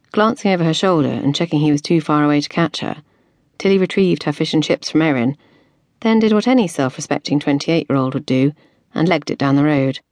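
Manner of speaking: usual speaking voice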